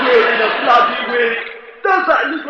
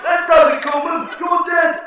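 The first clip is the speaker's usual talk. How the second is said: rising threat; 6 semitones higher than usual. Acted. Guest snaps and threatens Coleman. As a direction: lose your temper and threaten.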